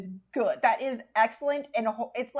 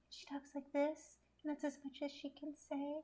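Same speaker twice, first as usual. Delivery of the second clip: mocking the Dove actress; 4 semitones higher, 15 dB quieter than usual. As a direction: imitate a stiff Botoxed actress barely moving her voice. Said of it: "the woman who plays Dove is the worst actress".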